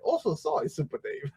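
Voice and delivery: squeaky mock Asian-accented apology rising at the end; teasing mock Asian accent. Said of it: "every time I wanted to make him mad".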